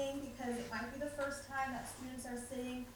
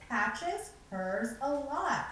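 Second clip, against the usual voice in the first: each word slow and separate; slow model reading; 4 dB louder, much slower than usual. Shown as a demonstration. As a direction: read it out slowly for the class to copy. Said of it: "Our morning message is".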